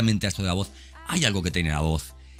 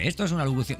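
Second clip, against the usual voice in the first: lightly imitated automated call announcement, higher pitched; synthetic phone voice; 6 semitones higher, faster than usual. Imitating a sales call to listeners, mock synthetic announcer voice. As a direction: put on a hint of a recorded telemarketing voice, pitched up. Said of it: "digamos, sintética, ¿no? Eh, es como cuando te llaman por teléfono".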